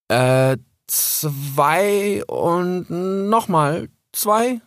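high, hesitant little fox; young fox voice. Acted. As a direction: ask shyly like a small cub. Cub answers confused.

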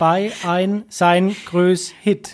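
very slow, words cut off after three letters. Shown as a demonstration. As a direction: chop every word short, slowly. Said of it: "ich kann nur mit drei Buchstaben sprechen".

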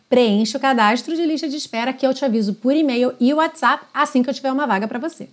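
quick, upbeat sales pitch; ad read. Acted. Teacher inviting students to the waitlist, fast ad read. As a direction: push the waitlist, fast and bright.

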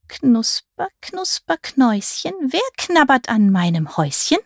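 put-on high, rusty old witch. A narrator's reading. Old witch asks who is nibbling her house, rusty voice. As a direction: croon it like a rusty old fairy-tale witch. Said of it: "Die Stimme klang rostig".

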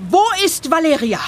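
alarmed. Real, not acted. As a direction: snap the question back in alarm. Echoing alarmed question.

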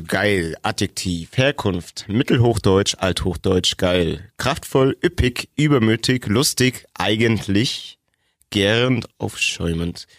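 measured dictionary read-out, item by item; list-like reading with short breaks; reading out a definition. Real, not acted. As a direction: read the entry aloud, giving each word its own beat. Reads out a dictionary entry.

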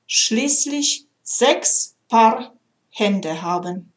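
measured storytelling read with gentle pauses; heartfelt recital of a story poem. A narrator's reading. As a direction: read it like a tender fable. Reads a poem aloud.

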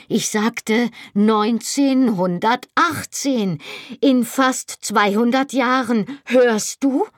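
near-hysterical cry, pitched high and dragged out; shouting. A narrator's reading. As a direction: shout it at him to make him hear. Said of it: "Ich schrie jetzt".

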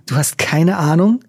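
lightly provoking rising question. Acted. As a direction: goad her with the question. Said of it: "als wollte er Fiona provozieren".

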